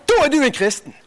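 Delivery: said through a laugh. Retold or imitated. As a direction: chuckle the words out. Preacher, laughter in scene.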